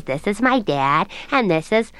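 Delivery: Francesca. Acted. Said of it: "So she goes".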